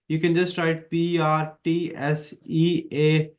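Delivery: ordinary talk, nothing marked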